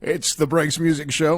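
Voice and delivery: bright announcer read of the show name; radio host intro. Acted. Host opening his radio show, upbeat announcer voice.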